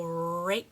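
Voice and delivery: RAKE with a drawn R and separate K; clear final K. Shown as a demonstration. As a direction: set the k of rake apart at the end. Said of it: "that k sound is all the way in the back".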